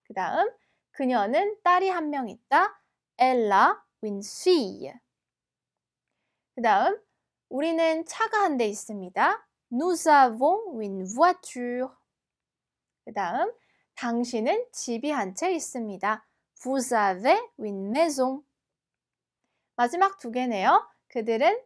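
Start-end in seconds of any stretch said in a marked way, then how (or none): 3.2-4.9 slow, careful French model sentence; slow teacher's French read-aloud. Shown as a demonstration. 9.7-11.9 slow, careful French model sentence; slow teacher's French read-aloud. Shown as a demonstration. 16.6-18.4 slow, careful French model sentence; slow teacher's French read-aloud. Shown as a demonstration.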